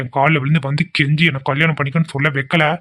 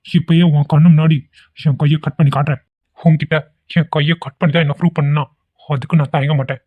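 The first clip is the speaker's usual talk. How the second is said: melodramatic threat. Acted. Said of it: "சும்மா voice அவ்வளவுதான்".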